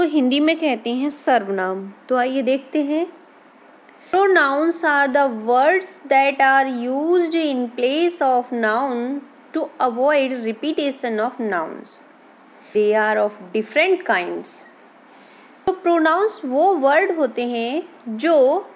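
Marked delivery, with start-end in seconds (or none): 4.1-14.7 reading a definition slowly, word by word. Acted. Teacher reading a definition to students, slow and deliberate. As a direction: spell out the definition for the class.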